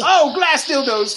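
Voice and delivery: high, slow, hammed-up sexy moan; mock sultry moan. Teasing cohost about masturbating, hammed-up slow sexy moan. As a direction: drag out the words like a cheesy porn moan. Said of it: "does it sound like this".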